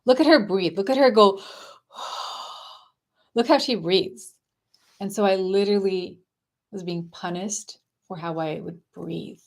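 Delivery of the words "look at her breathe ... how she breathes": taunting father, a little louder; mild mock of the dad ridiculing her breathing. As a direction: jeer at her in front of the family. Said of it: "he would gather the whole family around and say".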